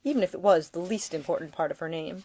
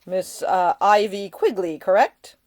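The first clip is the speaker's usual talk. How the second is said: mock-serious, louder toward the end; teasing; 2 semitones higher, 7 dB louder, slower than usual. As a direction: pretend to have forgotten. Nick jokingly misnames her.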